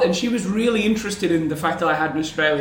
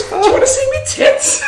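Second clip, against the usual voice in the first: high, loud Scouse woman impression; hammed-up Scouse with laughter behind it; mock Scouse accent; 7 dB louder than usual. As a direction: put on a shrieking Scouse come-on. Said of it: "Is that your Scouse accent?".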